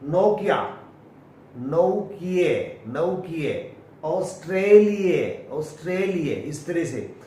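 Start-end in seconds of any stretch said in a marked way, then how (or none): 1.6-2.8 नौकिये ending on a short e-like vowel, slowly; no final aa. Shown as a demonstration. Teacher modelling the English ending. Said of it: "finally आ नहीं होता". 4.1-5.6 ऑस्ट्रेलिया ending on a short uh, slowly; no final aa. Shown as a demonstration. Teacher modelling the English ending. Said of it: "finally आ नहीं होता".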